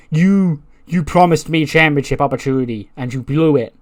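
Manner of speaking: lightly acted indignant complaint, first word hit hard; a touch of angry reproach, easing off; mock accusation. Mackie blames Bayley for the blown opportunity, mildly accusing.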